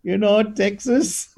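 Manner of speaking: put-on light Indian-accented shrug. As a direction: drag out the evasion in an Indian accent. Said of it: "a guy who's got an Indian accent".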